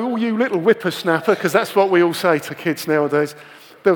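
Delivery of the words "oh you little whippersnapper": put-on old person voice. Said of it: "They'll go".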